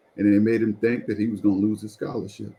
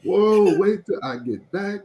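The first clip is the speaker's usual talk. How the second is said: retold anger; 7 semitones higher than usual. Acting out anger at his friend.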